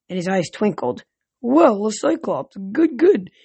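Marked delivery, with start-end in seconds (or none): 1.4-3.3 pleased god voice. Acted.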